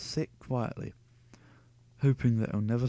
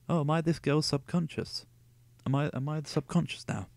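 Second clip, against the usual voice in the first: mock indignation; 5 semitones higher than usual. Real, not acted. Reader mocks the text.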